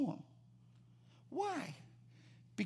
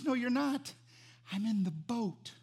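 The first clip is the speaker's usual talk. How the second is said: unhurried, softer reply after the panic; calm reassurance; 3 semitones higher, 3 dB quieter than usual. Acted. Jesus answering the frightened disciples, calm reassurance. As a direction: settle them down without raising your voice.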